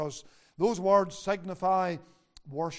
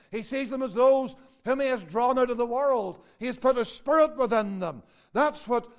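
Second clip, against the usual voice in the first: raised, emphatic sermon delivery; forceful preaching; 5 semitones higher, 8 dB louder than usual. Real, not acted. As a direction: drive it home to the congregation.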